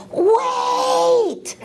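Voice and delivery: high sharp yell of wait; retold scream. Male nurse yelling down the hall at the grandchild. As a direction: shout it to stop her in her tracks. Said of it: "He screams down the hall".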